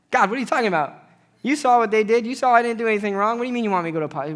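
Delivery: loud, outraged complaint to God; indignant protest. Retold or imitated. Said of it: "I'm like".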